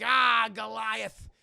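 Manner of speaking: loud, drawn-out battle call; taunting shout. Retold or imitated. Demona attacking Goliath, slow loud mock battle cry. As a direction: stretch it out as a villain's challenge. Demona calls out her enemy.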